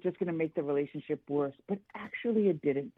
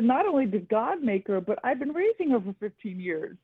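higher-pitched indignant mother, mildly heated; retold screaming match; 5 semitones higher than usual. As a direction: re-enact a mother's protest, pitched up. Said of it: "it turned into somewhat of a screaming match".

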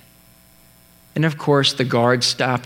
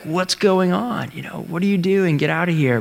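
annoyed president; 4 semitones higher than usual. Retold or imitated. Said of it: "you'd think Lincoln would be like".

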